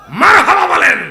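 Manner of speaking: high, loud crowd call; sudden preacher's yell; rousing shout. Real, not acted. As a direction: shout to get the congregation responding.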